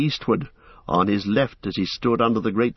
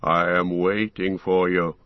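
lightly voiced barrow wight; a hint of a cold voice from the ground; understated cold ghostly voice; deep cold voice. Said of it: "a voice deep and cold".

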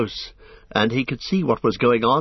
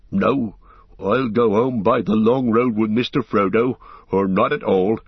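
thick, near tears. A narrator's reading. Sam choosing to stay with Frodo, struggling with tears. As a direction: voice thickened as if holding back tears. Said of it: "he spoke again thickly, as if struggling with tears".

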